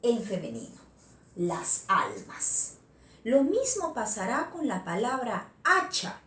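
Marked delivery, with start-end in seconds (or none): 1.3-2.7 Las almas drawn out very slowly and clearly; slow clear example. Shown as a demonstration. Teacher to class, showing the plural very slowly. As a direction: stretch out Las almas like a dictation. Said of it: "Su plural sí se mantiene en femenino".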